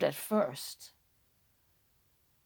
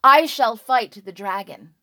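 a hint of a bold hero, louder; 6 dB louder than usual. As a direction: step forward and declare it. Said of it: "Kariadoc stood boldly".

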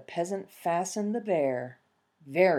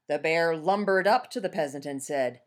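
ordinary delivery

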